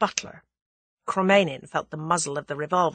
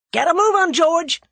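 loud, high shouted order; 11 semitones higher, 8 dB louder than usual. A narrator's reading. Julius yells to the chauffeur to drive off, shouting. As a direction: yell the getaway command. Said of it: "shouted Julius".

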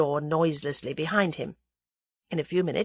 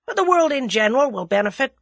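loud, high cheery verdict; breezy American, voice lifted; cheerful; 8 semitones higher, 6 dB louder, faster than usual. A narrator's reading. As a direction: pronounce it brightly, gun in hand. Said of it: "said Julius cheerfully".

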